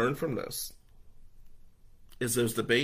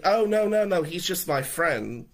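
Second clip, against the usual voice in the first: flustered denial; 5 semitones higher, 5 dB louder than usual. Retold or imitated. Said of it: "And she's like".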